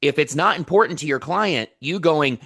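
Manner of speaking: worked up and emphatic; fired up. Real, not acted. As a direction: drive the point home with real passion. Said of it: "I'm getting fired up".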